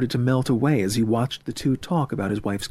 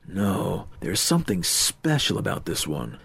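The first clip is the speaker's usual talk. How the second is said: lower, understated confession; smitten, sincere; 4 semitones lower, 3 dB quieter than usual. Acted. Murray tells friend she is special, softly sincere. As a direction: confide it with a touch of tenderness.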